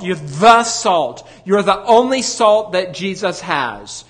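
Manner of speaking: slow, weighty pulpit delivery; preaching. Acted. Preacher urging congregation, slow weighty preaching. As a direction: drive the promise home to the pews.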